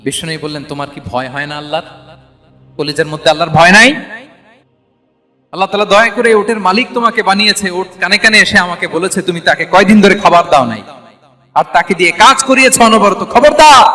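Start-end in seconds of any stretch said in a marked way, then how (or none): 0.6-13.3 retold angry rebuke. Prophet scolds camel's owner for starving it, retold angry rebuke. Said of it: "বিশ্বনবী রেগে বললেন". 13.3-13.8 high, loud exclamation of warning. Retold or imitated. Prophet warns camel's neglectful owner, loud warning. Acted warning within a rebuke.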